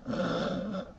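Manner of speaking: short muffled breath noise, holding smoke in; strained held-breath sound. Shown as a demonstration. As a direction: demonstrate keeping a lungful of smoke in. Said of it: "keeping it in".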